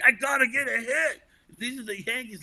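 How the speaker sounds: psyched up and desperate for a hit; pressured inner voice. Pretend. Batter's inner panic at the plate.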